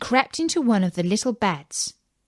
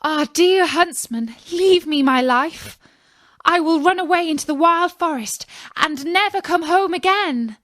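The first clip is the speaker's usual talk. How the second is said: put-on high, pleading child's voice; begging little girl; 8 semitones higher, 4 dB louder than usual. A narrator's reading. Girl begs the huntsman to spare her, pleading. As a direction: plead for your life like a frightened girl. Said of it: "the little girl cried and begged him".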